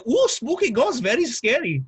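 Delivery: high, hammed-up spooky ghost voice; mock it like a campfire ghost. Mocking a ghost story.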